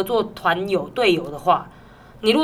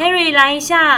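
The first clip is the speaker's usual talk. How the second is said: boss summoning; 7 semitones higher, 8 dB louder, slower than usual. Retold or imitated. Imitating boss summoning them.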